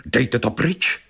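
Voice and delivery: mild narrated outcry; a lightly voiced warning cry. A narrator's reading. Wife quoting the clairvoyant's cry. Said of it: "a vykřikla".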